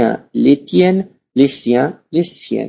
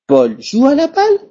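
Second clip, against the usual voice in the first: "Paul joue à la balle?" with the pitch rising high on "balle"; rising question intonation; 11 semitones higher than usual. Shown as a demonstration. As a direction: lift "balle" up high at the end as a yes-no question. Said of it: "Je monte la partie finale de la phrase".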